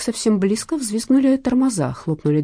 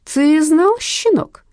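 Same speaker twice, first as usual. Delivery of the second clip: loud angry snarl, much higher; growled; 9 semitones higher, 6 dB louder, much slower than usual. A narrator's reading. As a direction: snarl it in his face. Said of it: "прорычал Рустам".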